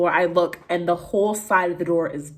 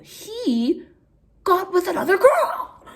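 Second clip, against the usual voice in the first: laughing; 12 semitones higher, slower than usual. Real, not acted. Shocked reveal, laugh heard.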